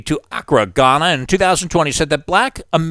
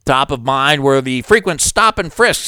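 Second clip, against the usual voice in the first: ordinary delivery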